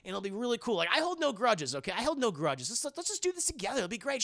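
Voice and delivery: a hint of a pushy sleazy hustler; sleazy Liev Schreiber. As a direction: sell the deal like a slimy opportunist. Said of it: "He's like".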